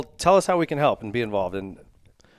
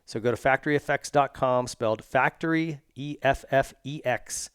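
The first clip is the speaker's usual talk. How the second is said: ad read. Acted. Host reads sponsor spots.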